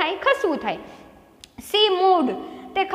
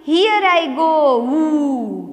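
slow, louder mock cry of joy; happy yell; 4 dB louder, much slower than usual. Teacher acts the girl setting off on her bicycle, happy yell. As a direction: call it out gleefully, drawing out the words. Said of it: "શું બૂમ પાડી?".

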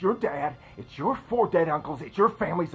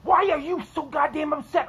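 higher, louder angry retort; angry yell; 9 semitones higher, 3 dB louder than usual. Acted. Husband mocking his wife's denial, angry and loud. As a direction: throw her words back at her. Husband yells back in quarrel.

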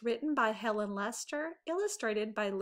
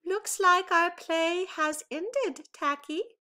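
prim, proper Angel; 8 semitones higher, 4 dB louder than usual. A narrator's reading. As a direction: say it sweetly like the perfect pupil. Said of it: "said goodly, lovely Angel, neatly and perfect".

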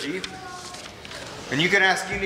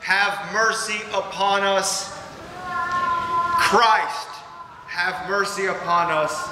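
each call to God lifted, each plea for mercy falling away; prayerful litany. Acted. Preacher praying the Kyrie for the congregation, earnest litany. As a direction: pray it line by line, rising on the name and sinking on the plea.

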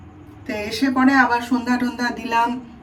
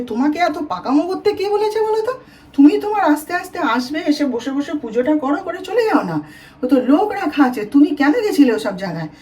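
higher-pitched retold scolding of an old woman; daughter-in-law retelling how she scolded her mother-in-law, higher, half-serious scolding; mock scolding; 4 semitones higher than usual.

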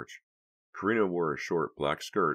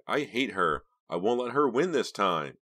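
higher, louder vow of anger; furious; 6 semitones higher, 6 dB louder than usual. A narrator's reading. Karina to Vincent, furious about Delia. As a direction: spit out the hatred.

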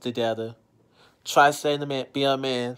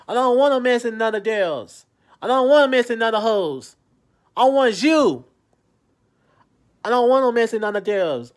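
pleading plea; 5 semitones higher, 4 dB louder than usual. Real, not acted. Pleading with girlfriend Brookie to call back, raised desperate plea. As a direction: beg her loudly to forgive you.

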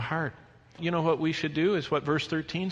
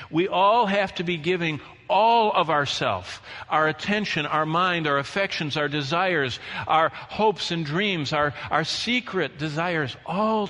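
louder pulpit voice, weighting each item; emphatic preaching; 4 semitones higher, 5 dB louder, slower than usual. Real, not acted. Preacher urging total surrender to God, emphatic preaching. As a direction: press each item home to the congregation.

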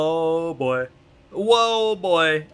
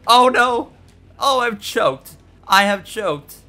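loud, higher-pitched dismay; dismayed outcry; 6 semitones higher, 6 dB louder than usual. Real, not acted. Racer who has just choked, loud dismay. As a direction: cry out as the lead slips away. Loses the lead in race.

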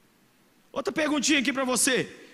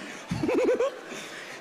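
airless wheezing laugh; silent breathy laugh; 12 semitones higher than usual. Real, not acted. Preacher laughing at her own story, breathy and silent. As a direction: laugh without voice.

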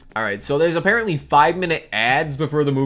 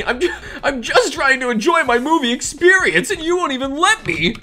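laughing complaint; 10 semitones higher than usual. Real, not acted. Mock complaint.

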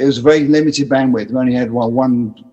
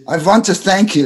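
higher, imitated German accent; 6 semitones higher than usual. German fan thanking the musician backstage, German accent. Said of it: "in his German accent".

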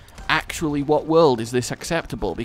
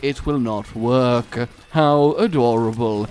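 nature documentary; 2 semitones lower than usual. Pretend. Mocking nature documentary narration.

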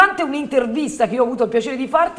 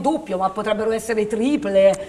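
infomercial. Acted.

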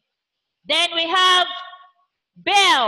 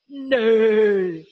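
horse neigh; 6 semitones lower than usual. Shown as a demonstration. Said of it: "Like a horse".

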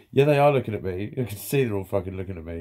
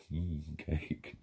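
low, very soft murmur of relish; savouring; 6 semitones lower, 13 dB quieter than usual. Pretend. Speaker daydreaming about a treat of cake, savouring softly.

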